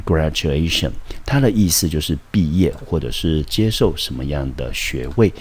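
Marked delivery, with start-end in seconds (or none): 0.0-0.9 graduation said clearly, stress on DU; teacher's model pronunciation. Shown as a demonstration. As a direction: spell out each syllable of graduation. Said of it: "这个字呢念成". (示范朗读graduation)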